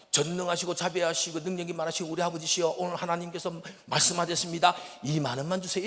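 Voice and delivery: loud, unbroken solemn recitation to father; mock formal prayer. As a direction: address dad as if praying in church. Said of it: "아버지 앞에 갈 때 그럽니다".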